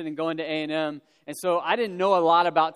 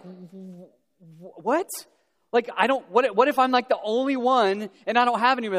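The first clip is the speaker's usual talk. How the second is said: rising panicky what-what, higher and louder; freaking out; 3 semitones higher, 3 dB louder than usual. Retold or imitated. Young man at stadium panicking to roommates about no date. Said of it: "I started freaking out".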